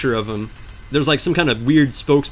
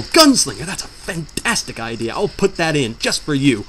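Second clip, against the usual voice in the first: imitating the developer. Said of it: "He might go".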